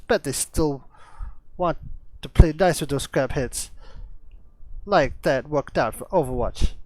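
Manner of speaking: put-on a hesitant try at a broad Australian accent; attempted Australian accent. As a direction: read the Roadhog lines in a rough Australian accent, not quite landing it. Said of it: "I can't do his accent, but I'll try".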